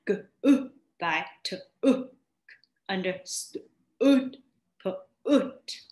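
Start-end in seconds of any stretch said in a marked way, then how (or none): 2.9-4.4 "understood" drawn out very slowly; teacher modelling the short sound. Shown as a demonstration. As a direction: stretch each sound of "understood". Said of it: "these are the short sound".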